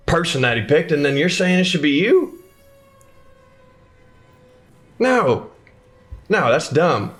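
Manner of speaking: mock the old man, then flatly refuse; a sarcastic bandit losing patience; mocking NPC.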